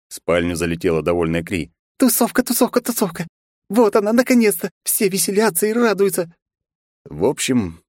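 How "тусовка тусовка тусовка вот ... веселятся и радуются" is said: high thrilled party chant; excited cheering. Acted. Kri cheering about party.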